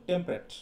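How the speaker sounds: "টেম্পারেট" shortened to tem-pret; quick two-syllable form. Shown as a demonstration. Teacher showing fast pronunciation, "টেম্পারেট" as two-syllable tem-pret. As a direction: drop the middle vowel of "টেম্পারেট": tem-pret. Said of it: "দ্রুত উচ্চারিত হয়, তখন কিন্তু দুটো sound".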